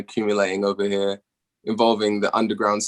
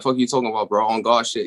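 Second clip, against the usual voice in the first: put-on Atlanta Southern accent. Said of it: "they'll say a sentence, like".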